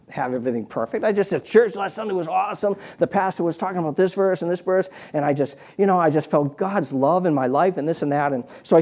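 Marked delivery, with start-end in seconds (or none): 1.4-4.9 higher-pitched projecting voice, not really louder; put-on public testimony voice; mock loud sharing. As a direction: pretend to chat so the next bed overhears. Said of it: "nice and loud".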